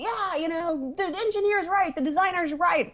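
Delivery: high, sing-song parroting of consensus; mocking agreement. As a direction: mimic everyone nodding along. Mocking the industry's old consensus.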